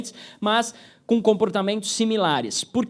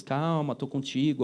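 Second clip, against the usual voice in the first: reassuring; 6 semitones lower, 6 dB quieter than usual. Shown as a demonstration. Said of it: "precisa repetir duas vezes".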